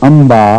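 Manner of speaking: "امبا" with n hummed into m; nasal merge. Shown as a demonstration. Teacher demonstrating the merge, "امبا" with nasal hum. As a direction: blend n and m through the nose in "امبا". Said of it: "نون اور میم مل کر".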